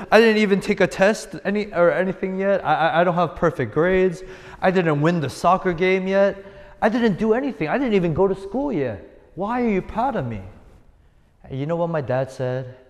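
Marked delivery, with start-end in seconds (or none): 0.1-6.4 put-on higher and louder child voice; protesting little kid. Pastor as a boy arguing with his proud dad, high child voice. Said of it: "I said". 6.8-7.7 put-on higher, insistent child voice without laughing; protesting little kid. Pastor as a boy arguing with his proud dad, no laugh. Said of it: "I said". 7.7-10.4 put-on protesting little kid. Pastor as a boy arguing with his proud dad, high child voice. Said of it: "I said".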